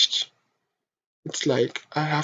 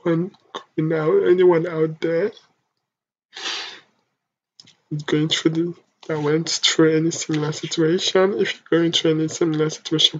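louder, urgent, near tears; tearful plea; 3 dB louder than usual. Real, not acted. Pleading with viewers in similar situations, tearful and urgent. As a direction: beg them to stay alive.

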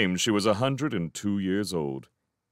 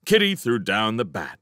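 usual speaking voice

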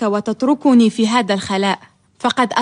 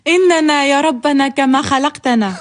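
laughing. Acted. Laughing while lamenting.

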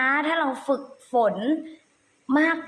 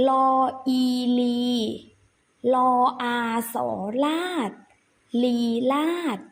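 spelling drill. Shown as a demonstration. Teacher leads children through spelling a word, measured recitation. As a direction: separate syllables with pauses between.

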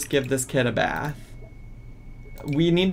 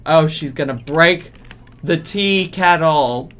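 1 alarmed exclamation; 2 semitones higher, 8 dB louder than usual. Real, not acted. Alarmed at Sim breaking kettle.

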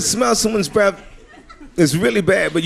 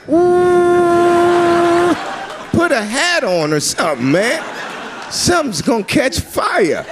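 mock local yelling; 11 semitones higher, slower than usual. Mocking locals about red hair.

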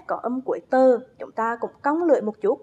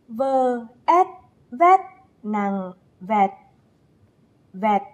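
spelling aloud; 2 semitones lower, much slower than usual. Shown as a demonstration. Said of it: "Thực hiện cùng cô nào".

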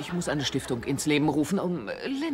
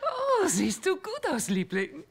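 gushing greeting; 11 semitones higher, slower than usual. Acted. Mother greets son's date gushingly.

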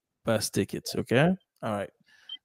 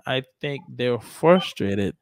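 slow model sentence; 2 semitones lower than usual. Shown as a demonstration. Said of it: "I think they're frustrated with the decision".

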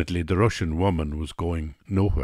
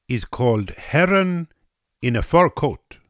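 high-pitched Russian woman presenting a dish; "heron" lifted high, as the hostess says it; 9 semitones higher, 4 dB louder than usual. A narrator's reading. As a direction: announce it high and proudly.

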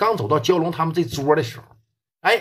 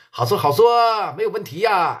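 easygoing southerner; 4 semitones higher than usual. Retold or imitated. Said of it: "南方的朋友可能会很好说话".

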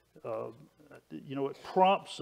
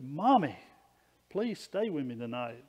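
lightly voiced pleading child, louder opening cry; begging little boy; 3 dB louder than usual. Little boy begs his mother to stay during a storm, mildly pleading. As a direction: call out for Mommy, then plead mildly. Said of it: "he begged her to stay with him".

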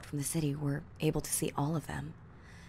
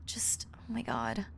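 awed whisper; 4 semitones higher, 7 dB quieter than usual. Acted.

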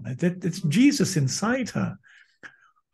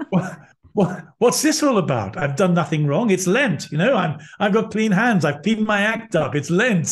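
mock protest; 4 semitones higher than usual. Protesting to God after kick.

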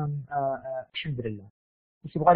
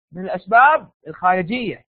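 shouted answer. Real, not acted. Teacher shouting the answer again.

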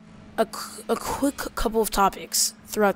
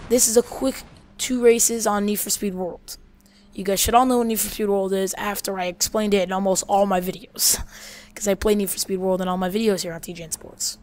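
monotone. Real, not acted. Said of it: "Sorry if I'm sounding a little bit monotone".

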